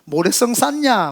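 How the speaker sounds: drawn-out, scornful taunting questions; mock the builders, stretching the words; imitated derision. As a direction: jeer at their childish plan. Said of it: "그러면서 막 비웃고".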